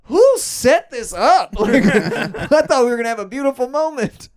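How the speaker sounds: mock exasperation. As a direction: play the flustered mediator. Mediator exasperated.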